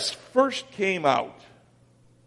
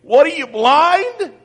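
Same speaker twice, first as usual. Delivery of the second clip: sad voice; 9 semitones higher, 8 dB louder than usual. Retold or imitated. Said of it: "God with this sad voice saying".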